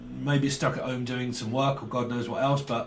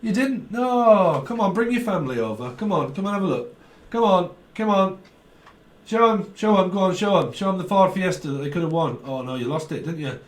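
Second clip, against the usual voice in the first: higher-pitched game-show host impression; Jim Bowen; 3 semitones higher than usual. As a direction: usher the losers over to see the prize. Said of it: "Like Jim Bowen".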